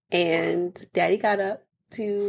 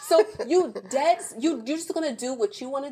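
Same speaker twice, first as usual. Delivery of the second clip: laughing; 5 semitones higher than usual. Retold or imitated. Laughing accusation.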